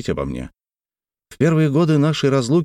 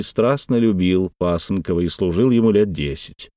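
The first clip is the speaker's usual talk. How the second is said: ordinary delivery, nothing marked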